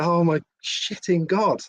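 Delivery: slow, drawn-out stunned exclamation; slow, awestruck disbelief. Retold or imitated. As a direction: let the shock stretch every word. Stunned reaction to the call.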